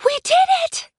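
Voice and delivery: high, loud whoop of triumph; victorious scream. A narrator's reading. Aiko running for the ramp in triumph, screaming.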